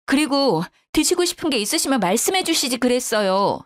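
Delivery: mildly heated reproach; indignant arguing back. A narrator's reading. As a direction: argue your case, affronted. Daughter-in-law argues back.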